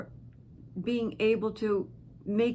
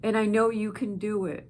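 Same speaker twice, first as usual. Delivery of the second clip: emphatic encouragement; 4 dB louder than usual. Real, not acted. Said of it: "I get emotional".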